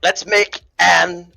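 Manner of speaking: lightly voiced Trump boasting, only a hint of his voice; a tipsy, half-hearted Trump bragging about Anne; Donald Trump impression. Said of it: "he was Trump".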